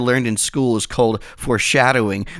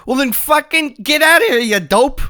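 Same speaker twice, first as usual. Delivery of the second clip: high, louder fed-up snap; exasperated Kurt; 12 semitones higher, 4 dB louder than usual. Acted. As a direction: yell it high at the useless guy. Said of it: "Kurt goes".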